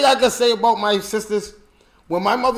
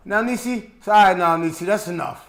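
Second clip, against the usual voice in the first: calm grandmother; 3 semitones lower than usual. Retold or imitated. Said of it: "My grandma would be like this".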